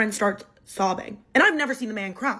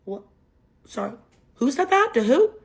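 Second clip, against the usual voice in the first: stunned disbelief; 3 semitones higher than usual. Retold or imitated. Hearing an absurd accusation.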